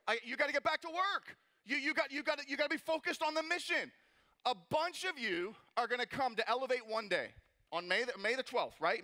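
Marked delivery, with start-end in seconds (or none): 0.1-3.9 high, impassioned preacher's charge; urgent exhortation. Real, not acted. Preacher sending the congregation back to work, urgent. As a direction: drive it home to the crowd.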